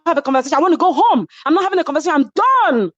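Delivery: fast mock snap refusing a talk; snapped. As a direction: rattle off the no's. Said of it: "She said".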